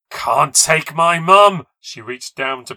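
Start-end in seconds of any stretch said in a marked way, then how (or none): 0.1-1.7 slow, high, piercing tantrum scream; furious scream. Acted. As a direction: scream in fury to keep your mother. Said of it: "in a fury and started to scream".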